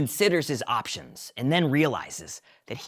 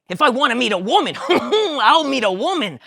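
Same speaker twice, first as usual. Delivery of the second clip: laughing George; 11 semitones higher, 8 dB louder than usual. Acted. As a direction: laugh through the line.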